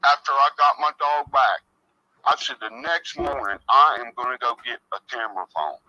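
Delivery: tinny voice through a cell phone; distant, crackly phone speaker sound; buzzing phone interference. Real, not acted. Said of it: "crappy cell phone next to the mic".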